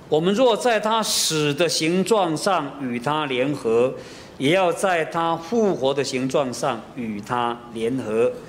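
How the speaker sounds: slow, measured Bible reading; scripture reading. Acted. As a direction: read the verse slowly and solemnly. Reading scripture aloud slowly.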